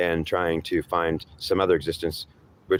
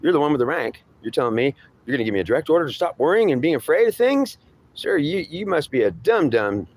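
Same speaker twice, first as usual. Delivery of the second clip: higher, pleading voice of a scared underling; frightened subordinate; 4 semitones higher than usual. Acted. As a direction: plead with the boss who won't understand. Speaker voices frightened man addressing superior.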